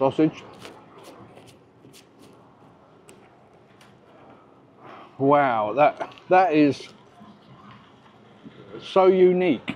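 speaking while chewing, mouth full of food. Tasting the sausage special, talking with mouth full. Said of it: "I'm spitting food here".

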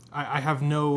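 ordinary delivery

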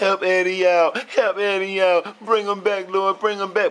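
acted crying out, pleading. Acting out the family begging the Lord to bring Eddie back, acting out crying to the Lord. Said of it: "crying like hell to the Lord".

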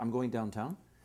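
downtown with a rise at the end. Explaining the Ontario accent's Northern Irish roots, rising pitch on 'downtown'. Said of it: "Because we go up at the end".

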